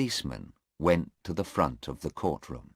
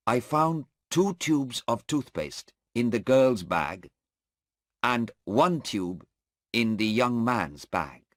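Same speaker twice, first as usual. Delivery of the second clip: a dutiful officer answering in court; airport policeman testifying; 7 semitones higher, 3 dB louder than usual. Acted. Policeman answering the lawyer's questions in court, dutiful and steady.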